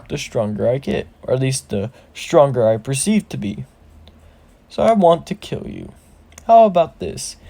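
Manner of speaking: lightly voiced boss monologue; grand villain challenge, swelling at phrase starts; orc shaman. Orc shaman daring Deku to attack, mildly theatrical menace.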